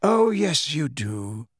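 calm certainty, unmoved. A narrator's reading. Dumbledore calmly insisting to the furious boy. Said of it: "still more calmly".

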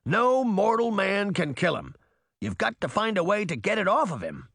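high-pitched, urgent character voice; emphatic Titan. A narrator's reading. Titan warns the girls about Atticus, urgent.

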